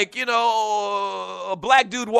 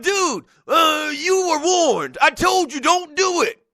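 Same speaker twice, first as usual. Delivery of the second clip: lightly voiced caller, friendly but warning; a hint of a laid-back dude warning his buddy; callers' warning voice; 8 semitones higher, slower than usual. Fan on the phone warning the host, lightly voiced. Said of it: "doing my Bob for Martin's voice".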